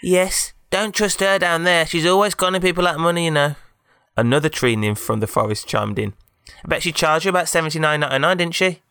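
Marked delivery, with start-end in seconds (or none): 0.0-3.6 high, quick gossiping nymph; chatty high voice of a forest nymph. Acted. Tree nymph warning Alex. 6.6-8.8 fast, high teasing nymph. Acted. Second tree nymph chimes in.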